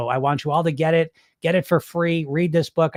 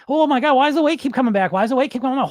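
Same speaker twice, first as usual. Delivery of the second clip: mocking, higher-pitched voice of a puzzled author; mock bewildered author; 7 semitones higher, faster than usual. Coach mocks the diet book author, exaggerated bafflement. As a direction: parody the baffled scientist throwing up his hands. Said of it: "never once does he".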